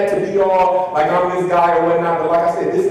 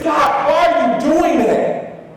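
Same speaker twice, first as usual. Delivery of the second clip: much higher, louder startled student voice; startled question; 10 semitones higher, 5 dB louder, slower than usual. Retold or imitated. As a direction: imitate a student caught off guard. Startled student asks again.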